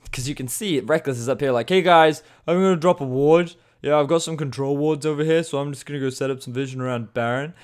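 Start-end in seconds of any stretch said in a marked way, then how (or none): 1.7-7.5 high, loud mock Swedish accent. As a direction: put on a cheery Swedish accent for Rekkles. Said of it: "That was my Swedish accent".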